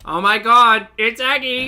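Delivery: loud, high, gushing imitation; excited mock greeting. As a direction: echo an excited squeal of recognition. Echoing clip's excited greeting of Aggie.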